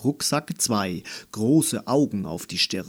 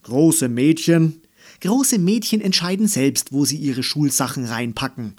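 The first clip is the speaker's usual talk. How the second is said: loud, higher-pitched defiant declaration; firm retort; 3 semitones higher, 6 dB louder than usual. A narrator's reading. Girl countering her doubtful father, firm retort. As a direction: start emphatic and loud, then rattle off. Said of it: "entgegnete Andy bestimmt".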